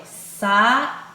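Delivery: "sair" slowly, broken between a and i; syllable by syllable. Shown as a demonstration. Teacher showing vowels in different syllables, "sair" syllable by syllable. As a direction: split "sair" into two separate beats. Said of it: "ficaram em sílabas diferentes".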